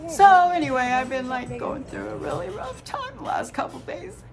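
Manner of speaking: tearful, voice wavering; talking through tears; blubbering. Real, not acted. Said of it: "Shouldn't be crying on my birthday".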